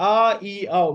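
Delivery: ఆ, ఈ, ఔ as three separate, loud, rounded vowels; demonstrated vowel sounds. Shown as a demonstration. Teacher showing three mouth positions, ఆ, ఈ, ఔ fully articulated. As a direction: sound out ఆ, ఈ, ఔ one by one, loudly, mouth fully shaped. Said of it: "sounds in only three dimensions".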